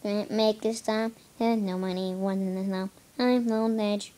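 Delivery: flat robotic singing voice. Pretend. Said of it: "I'm supposed to sound like a robot".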